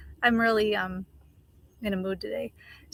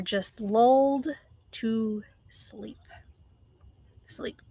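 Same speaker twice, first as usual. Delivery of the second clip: softer whispered "sleep", fading; 3 dB quieter, slower than usual. Real, not acted. Whispering to viewers how people are lulled to sleep. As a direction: let it sink to a hush.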